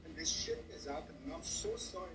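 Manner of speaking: fighting back tears while speaking; crying. Real, not acted. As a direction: voice breaking through tears.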